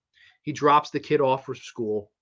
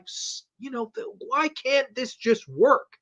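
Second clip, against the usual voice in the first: mock pleading despair; 10 semitones higher than usual. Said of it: "And you're like".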